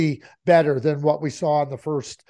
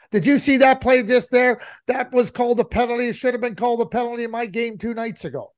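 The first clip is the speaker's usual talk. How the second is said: imitating a complaining GM; 5 semitones higher than usual. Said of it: "he goes".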